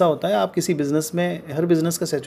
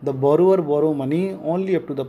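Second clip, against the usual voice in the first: very slow, careful read-out; slow textbook reading; much slower than usual. Shown as a demonstration. Teacher reading the textbook line to his students, slowly. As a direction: read each word out for the class.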